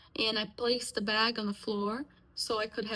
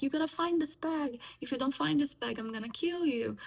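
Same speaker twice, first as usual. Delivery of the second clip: mother's furious threat; 4 semitones higher than usual. Retold or imitated. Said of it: "she was screaming and she was hitting me".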